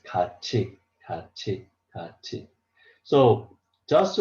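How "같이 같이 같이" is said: 같이 read as gachi, the T softened to CH; model pronunciation. Shown as a demonstration. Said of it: "you have to read like this".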